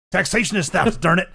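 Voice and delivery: high, loud mock-indignant shout; loud, hammed-up indignation; mock outburst. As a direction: belt it out like a joke protest. Mock political outburst after apologising.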